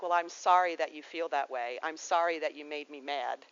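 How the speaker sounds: lightly voiced huffy non-apology; a hint of a defensive sign; mock grudging apology. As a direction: play the Aries who says sorry but blames you. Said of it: "that's an, an, an Aries".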